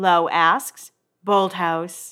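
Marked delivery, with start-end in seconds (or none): 1.3-2.1 put-on uninterested, bored voice. Retelling a one-word answer while getting hair done: imitating Lauren's in-the-zone voice. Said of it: "That was the voice that she used".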